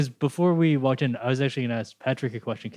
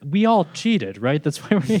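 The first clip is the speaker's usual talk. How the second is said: conspiratorial whisper to guys; 5 semitones higher, 5 dB louder than usual. Retold or imitated. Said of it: "He's turning to the other guys like".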